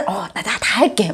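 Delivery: meek. Retold or imitated. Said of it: "어, 너무 약한 모습".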